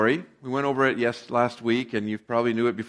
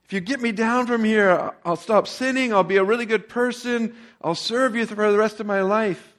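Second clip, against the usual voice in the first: pleading Jack; 8 semitones higher than usual. A narrator's reading. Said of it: "said Jack".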